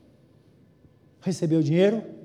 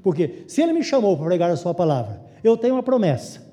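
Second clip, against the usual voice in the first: louder, building sermon voice, pressing each promise home; fervent preaching; 2 semitones higher, 4 dB louder than usual. Acted. Pastor rallies his congregation about God's provision, building fervent preaching. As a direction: preach it with growing conviction.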